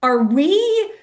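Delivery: high, halting half-questions; retold stunned disbelief. Runner checks with pacer what they saw, stunned and halting. Stunned after seeing naked stormtrooper.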